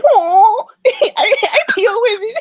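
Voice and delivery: high, loud mocking imitation of an Asian-accented caller. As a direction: mimic the prank caller's Asian accent, laughing. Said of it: "You literally just called and said".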